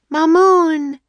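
high, loud searching shout. A narrator's reading. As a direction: bellow the name into the haze. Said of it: "they shouted together".

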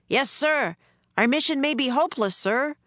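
a hint of an anxious officer; worried major. A narrator's reading. Major fears the mission is hopeless, worried.

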